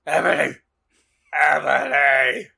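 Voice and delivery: drawn-out, hammed-up mournful call; sad shout. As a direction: call after your lover, overdoing the heartbreak. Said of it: "shouted Draco sadly".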